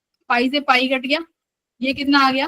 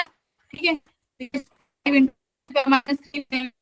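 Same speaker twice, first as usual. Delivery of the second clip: choppy call audio; bad connection; much slower than usual. Real, not acted. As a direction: voice breaking up online. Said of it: "आपकी आवाज break हो रही है".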